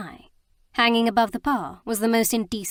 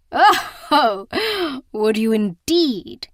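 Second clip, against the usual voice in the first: much louder, slow sneering outburst; loud mocking cry; 3 semitones higher, 7 dB louder, much slower than usual. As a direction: cry out in menacing mockery. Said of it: "he cried".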